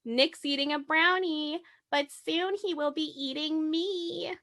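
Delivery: a hint of Gypsy's high voice; retold Gypsy quote. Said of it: "she's giggling and laughing, and she says".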